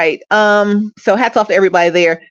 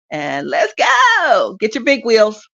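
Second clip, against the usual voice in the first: rousing; 5 semitones higher, slower than usual. Real, not acted. Rousing sign-off.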